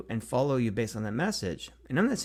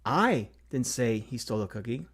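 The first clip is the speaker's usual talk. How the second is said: I stressed, rising. Shown as a demonstration. Teacher demonstrating stress on I. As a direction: lean on the word I. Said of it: "inflect each word in that sentence".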